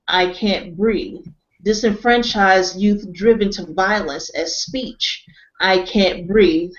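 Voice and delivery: slow, solemn recital with a dragging refrain; measured spoken-word reading; reading a poem aloud. Acted. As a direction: read it like a protest poem, leaning on each "I can't breathe". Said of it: "And his words went this way".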